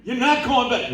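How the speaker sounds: a mother hit with bad news, blurting out her shock. Mother hearing her son quit school, shocked and high.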